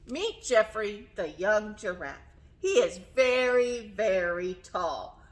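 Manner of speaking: lively storytime reading with stretched key words; reading to children. A narrator's reading. Teacher reading giraffe picture book to children, animated storytelling. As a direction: read it expressively, lingering on the describing words.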